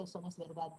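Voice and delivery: verdad dicho verdá, suave y bajo; sin la d final. Shown as a demonstration. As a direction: deja caer la d de verdad. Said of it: "Nadie dice". (verdá sin d)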